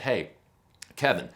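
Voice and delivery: put-on a light Brooklyn accent as the manager. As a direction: Brooklyn manager calling out a friendly hello. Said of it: "that's my best Brooklyn, Brooklyn accent".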